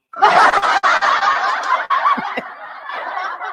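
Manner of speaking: loud high laughter at herself; big laugh. Real, not acted. Vlogger laughing at her own impression, loud laugh.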